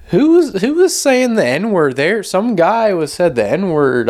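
high-pitched, drawn-out imitation of guys asking around; mock accusers.

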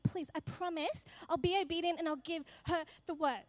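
mock desperate plea to God, rising high; pleading prayer. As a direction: beg God half-hearted but earnest. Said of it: "and I'm just like".

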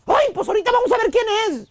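a touch of annoyed wife; wife threatening to call the number, mildly irritated; mock angry wife. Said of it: "Pone cara de enojada y te dice".

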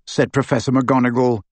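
plain reading voice

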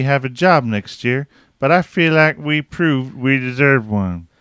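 lightly voiced frog-like preacher; Kermit Southern preacher voice. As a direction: read it like a drawling muppet preacher. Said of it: "a mix between Kermit and a Southern preacher".

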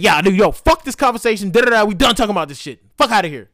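loud, irritated outburst cutting off talk; retold yelling. Friend angrily ending the conversation, imitated yelling. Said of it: "basically yelling and screaming".

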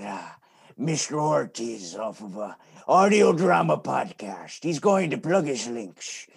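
loud, slow swashbuckling pirate. Pretend. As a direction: growl it out like a pirate. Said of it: "wanna hear your pirate voice".

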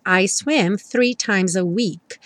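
slow, clear English model sentence; slow example. Shown as a demonstration. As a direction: say it slowly for learners. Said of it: "Por exemplo". (frase-modelo lenta e clara)

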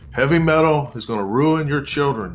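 lightly imitated hellfire preaching; fiery preacher. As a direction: hammer it home like a TV preacher on a tirade. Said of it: "he's beating the drum".

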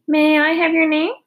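politely. A narrator's reading. Charlotte politely greets the big pig. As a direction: ask nicely, like a courteous lady. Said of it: "she asked politely".

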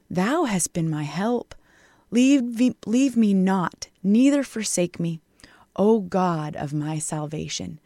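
earnest whispered plea; pleading scripture reading. Acted. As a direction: plead with God, then let it fall to a whisper. Reading the psalm aloud.

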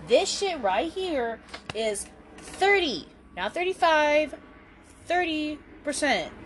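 slurred, tipsy words. Real, not acted. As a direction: talk like you've had too much vodka. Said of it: "that's why she's slurring her words".

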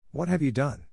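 high alarmed cry; shocked cry. A narrator's reading. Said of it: "cried the princess".

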